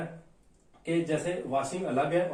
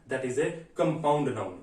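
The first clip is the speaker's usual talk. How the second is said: slow announcement; 5 semitones lower, much slower than usual. Shown as a demonstration. Announcing the next topic.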